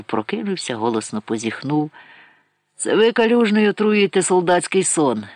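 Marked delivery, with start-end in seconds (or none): 2.8-5.2 higher and louder, hoarse; hoarse question. A narrator's reading. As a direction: croak it out half awake. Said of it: "спитав він хрипко".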